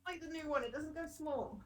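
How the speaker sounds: distant voice, far off the mic; talking from across the room; far from microphone. Real, not acted. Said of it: "You sound so far away from your microphone".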